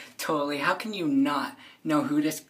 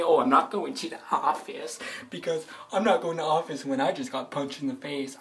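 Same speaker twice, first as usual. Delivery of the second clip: mocking classmate; 4 dB louder than usual. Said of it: "he tried to say".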